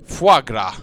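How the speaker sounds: "Foie gras" carefully repeated as "fwa gra"; French foie gras, repeated. Acted. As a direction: copy the French "Foie gras", a little unsure. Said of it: "Ah, yes, okay".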